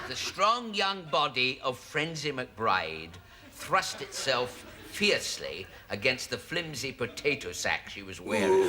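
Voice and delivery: measured, dramatic novel reading; story narration. Acted. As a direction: read it as steamy pulp romance. Reads the novel aloud.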